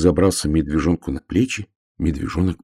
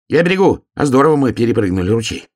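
high, loud and thrilled; a little hedgehog delighted by the jump; excited hedgehog; 7 semitones higher, 5 dB louder, faster than usual. Acted. Hedgehog shouts back to the bear cub, high and excited.

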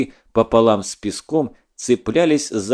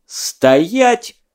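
loud sharp higher bark; barked command; 10 semitones higher, 4 dB louder than usual. Acted. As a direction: bark the order to freeze. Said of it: "рявкнул Задов".

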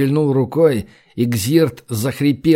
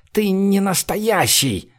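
slow, much higher, cowering in horror; a frightened man shrinks back, stretching ты не настоящий; terrified; 7 semitones higher, slower than usual. A narrator's reading. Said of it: "в ужасе сжался в комок". (в ужасе, медленно и высоко)

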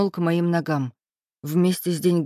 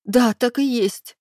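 higher, slow, near tears; blurted, fighting tears; 5 semitones higher, 3 dB louder, slower than usual. A narrator's reading. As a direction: throw it in his face holding back sobs. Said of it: "выпалила ему в лицо".

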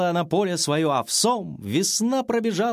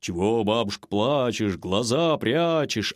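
low, rumbling bear voice; gentle bear; 7 semitones lower than usual. A narrator's reading. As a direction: ask like a big kindly bear. Bear asks the granny.

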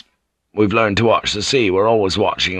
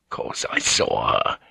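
low, soft, offended thought voice; indignant inner thought; 10 semitones lower, 6 dB quieter than usual. A narrator's reading. Blackthorn, stung by Mariko's question, thinks indignantly. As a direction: bristle quietly inside his own head. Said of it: "he thought indignantly".

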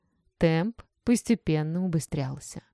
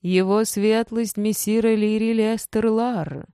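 town crier. Acted. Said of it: "прокричал хорошо знакомые титулы".

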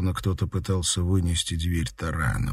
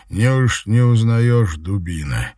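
double voice; 2 semitones higher, 5 dB louder, slower than usual. Acted. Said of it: "ответил тип двумя голосами".

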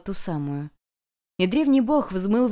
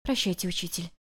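much softer, breathy goodbye; a girl whispering goodbye to her teacher; whispered farewell; 8 dB quieter than usual. Acted. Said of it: "прошептала Юнь-Юнь".

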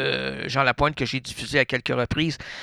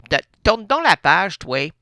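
loud, higher bark to turn the page; snapping order; 4 semitones higher, 3 dB louder than usual. Acted. Ordering the helper to turn the page, loud and higher. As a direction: push the helper along.

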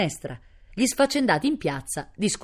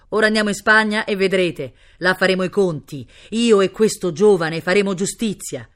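loud, raised oratorical voice; grand speech; 3 semitones higher, 7 dB louder than usual. A narrator's reading. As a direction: harangue the crowd for justice. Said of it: "si mise a fare gran discorsi". (discorso altisonante da comizio)

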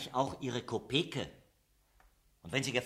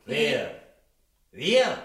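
high, loud feigned innocence; mock surprise; 5 semitones higher, 11 dB louder than usual. Workers feigning innocence to the foreman, high loud mock surprise. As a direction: play the innocent, big.

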